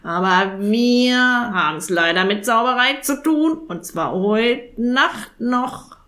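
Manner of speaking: croaky, slowing insistence; urgent raven. Acted. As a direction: hammer home tonight.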